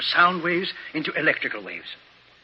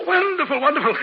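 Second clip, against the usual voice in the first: delighted; 11 semitones higher than usual. Acted. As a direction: savor the triumph, pitched up. Professor delighted by machine.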